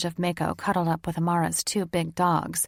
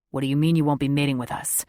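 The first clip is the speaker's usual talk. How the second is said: fast, urgent male voice; urgent cry; 4 semitones lower, 4 dB louder, faster than usual. Acted. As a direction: press her with alarm. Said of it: "Rain cried urgently".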